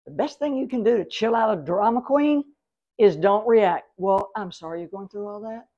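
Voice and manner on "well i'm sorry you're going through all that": softer, calm and unbothered. Shown as a demonstration. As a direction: stay calm, give no energy. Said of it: "Just as calm as you can be".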